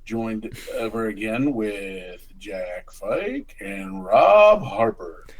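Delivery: big, loud showman welcome; game show host voice. Acted. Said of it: "I was doing my best game show host voice".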